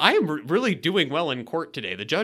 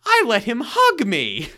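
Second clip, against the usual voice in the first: mock retold quote; 8 semitones higher, 8 dB louder, slower than usual. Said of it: "Eileen just goes".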